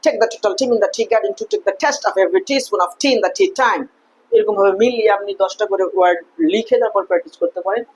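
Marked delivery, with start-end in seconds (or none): 0.0-3.8 slow tongue-twister, puff on every t in tea; deliberate practice sentence, airy t in team; aspirated T drill. Shown as a demonstration. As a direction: pop each t in take, total, teaspoon, time. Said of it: "যেমন টি".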